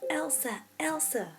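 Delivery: put-on high, eager child's voice; little sister tugging her awake; urgent little girl. A narrator's reading. Little Anna urgently waking her sister. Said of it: "she said urgently".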